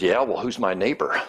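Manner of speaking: dry, dismissive question; a touch of sarcasm, brushing it off; mild snark. Retold or imitated. Law expert answering Jesus back, mildly snarky. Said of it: "this snarky reply".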